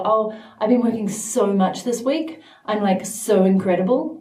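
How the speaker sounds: a light Valley girl imitation, boasting about overwork. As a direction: mockingly play a self-satisfied Valley girl, only slightly changing the voice. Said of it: "I just became a Valley girl".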